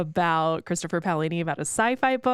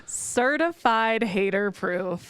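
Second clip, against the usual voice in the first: slow title call; slower than usual. Acted. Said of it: "We love a certified hater proof segment".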